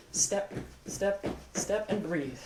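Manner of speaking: half-whispered step count; coaching along. Shown as a demonstration. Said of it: "Try it with me right now".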